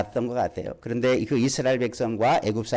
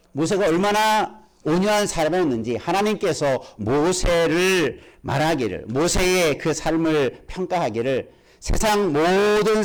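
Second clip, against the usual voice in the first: raised, emphatic pulpit delivery; fervent preaching; 4 semitones higher than usual. Acted. Preacher proclaiming God's verdict on Moses' meekness, fervent preaching. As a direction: proclaim it, stretching the key words.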